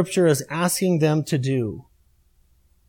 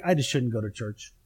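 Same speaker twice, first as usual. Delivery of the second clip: mock reluctance; 7 semitones lower, 7 dB quieter than usual. Retold reluctant Sunday morning thought.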